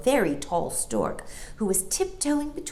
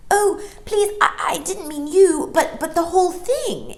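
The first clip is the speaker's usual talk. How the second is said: put-on much higher, stammering girl; flustered apology; 13 semitones higher, 7 dB louder than usual. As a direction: hurry to say sorry. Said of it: "explained Jane".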